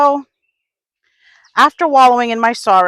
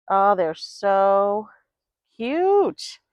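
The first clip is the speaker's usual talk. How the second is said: delighted coo; much slower than usual. Real, not acted. Cooing over tiny blueberries.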